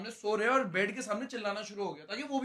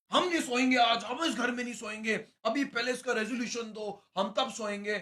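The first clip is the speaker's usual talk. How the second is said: housemates demanding; 4 semitones higher, 4 dB louder than usual. Retold or imitated. Housemates retold demanding resolution.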